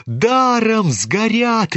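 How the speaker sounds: high, slow lament yelled out; roaring crowd. A narrator's reading. The crowd roaring at the fire, high and slow. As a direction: shout it long in dismay. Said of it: "ревели со всех сторон".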